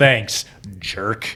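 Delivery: mock sarcastic, retorting tone. Retelling an audiobook scene where the narrator gets sarcastic: imitating a sarcastic remark. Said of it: "gets sarcastic where it's like".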